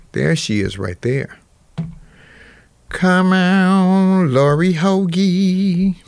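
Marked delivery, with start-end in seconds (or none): 2.9-6.0 calling out. Real, not acted. Calling out to cohost.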